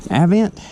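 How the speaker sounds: Avent as AV-ent, short A, rising; trying a pronunciation. Shown as a demonstration. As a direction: try out Avent starting "AV", questioningly. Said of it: "Is it Avent or Avent?".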